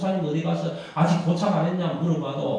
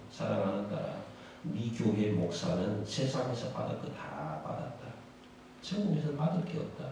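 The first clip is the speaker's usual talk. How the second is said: the Lord speaking gently; 8 semitones lower, 8 dB quieter than usual. Acted. The Lord explaining to the deaconess why the pastor has nothing, low and solemn. The Lord's final word.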